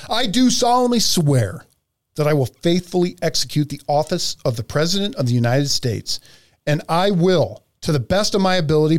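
formal, measured oath reading. Acted. Host reading the oath aloud, formal and measured. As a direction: read it out like a sworn oath. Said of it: "Let me read the oath".

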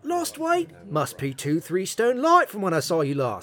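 put-on faking Aussie to an old acquaintance; fake Australian accent. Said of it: "I know my accent sucks".

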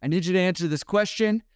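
big paramedic yelling at a stubborn patient, pitched high; retold yell. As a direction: bark it into his face as the big paramedic. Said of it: "he just yells at him right in his face".

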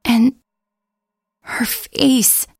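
lightly voiced young woman, shaken and hushed; a hint of a scared girl retelling her night; frightened girl Nikki. Girl telling her friends what she saw, lightly voiced and uneasy.

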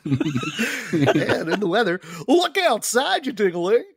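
weather reporter. Pretend.

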